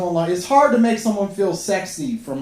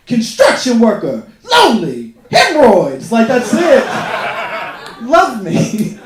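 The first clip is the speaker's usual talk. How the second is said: a lightly voiced old man, louder, listing flatly; old man's profile; 6 dB louder than usual. Comic voicing an old man's dating profile, a touch louder. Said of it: "So it'll just be like".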